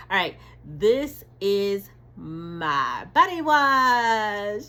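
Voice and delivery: slow, loud, close to tears; tearful joy. Real, not acted. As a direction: choke up with pride. Emotional reveal of own product.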